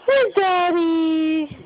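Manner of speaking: put-on slow, wide-eyed baby-talk wonder; playfully amazed where's Daddy; mock astonished question. Shown as a demonstration. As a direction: stretch it out like a big discovery. After gasp, dramatic take.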